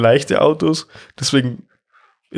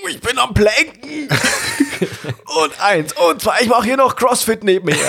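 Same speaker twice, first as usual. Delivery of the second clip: strained laughing; 8 semitones higher than usual. Pretend.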